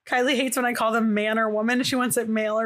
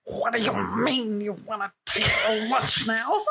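mock pirate voice. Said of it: "or I'd be like".

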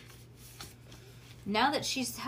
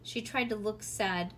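usual speaking voice

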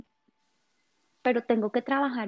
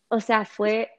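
excited; 5 dB louder than usual. Real, not acted. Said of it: "se me paran los pelitos".

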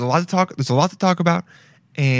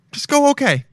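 sing-song motto; 10 semitones higher than usual. Shown as a demonstration. Offering listeners his motto, sung out high. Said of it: "That should be a motto".

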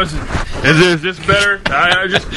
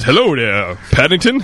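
Mr. Brown voice; 4 semitones lower than usual. Acted.

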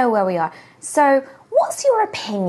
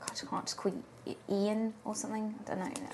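hushed, hurried whisper; whisper yelling; 3 semitones lower, 10 dB quieter than usual. Real, not acted. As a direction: keep it down, nobody must hear. Hiding the crystal, talking quietly.

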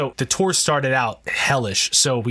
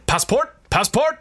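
barking driver; 11 semitones higher than usual. Retold or imitated. Driver barges in shouting at sleeping band. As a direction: bark passport at the sleeping band.

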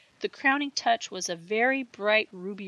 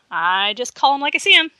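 laughing; 6 semitones higher, 11 dB louder than usual. A narrator's reading. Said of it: "he laughed".

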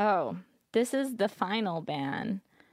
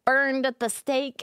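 higher-pitched mimicry of an online mob; mock outrage; 4 semitones higher than usual. Streamer quoting angry internet crowd about the ban, mock outrage. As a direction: imitate the internet losing it. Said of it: "the internet's freaking out, losing it".

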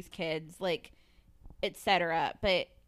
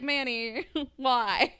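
laughing exasperation; 3 semitones higher, 4 dB louder, much slower than usual. Retold or imitated. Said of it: "I'm just like".

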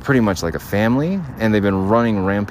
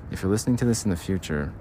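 softer, quick, half-swallowed address to future self; hushed aside; 2 semitones lower, 6 dB quieter, faster than usual. Shown as a demonstration. Talking to their future self, quietly rushed. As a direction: mumble the message to your future self. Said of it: "I ruined that bit".

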